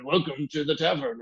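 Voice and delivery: a hint of a fantasy innkeeper; lightly voiced tavern keeper greeting. Shown as a demonstration. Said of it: "sit there on a microphone all day and be like".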